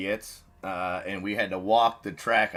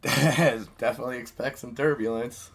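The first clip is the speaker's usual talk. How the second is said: pilot announcement; 4 semitones higher, 5 dB louder than usual. Pretend. Pilot voice joke again.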